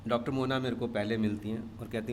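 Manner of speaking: ordinary talk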